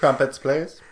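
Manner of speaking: playful put-on Cockney accent, lightly done; ordering crumpets in a joking Cockney accent; mock Cockney accent. Jokingly ordering crumpets like a Londoner, mock Cockney accent. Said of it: "I have kind of a Cockney thing".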